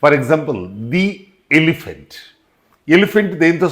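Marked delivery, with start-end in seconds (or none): 0.9-2.1 long ee in the before elephant; the pronounced "dee" before the vowel of elephant. Shown as a demonstration. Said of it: "ది అని pronounce చేయాలి".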